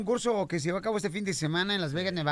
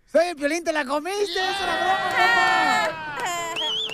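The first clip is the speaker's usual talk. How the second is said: excited; 7 semitones higher, 5 dB louder than usual. Real, not acted. Revealing the prank call.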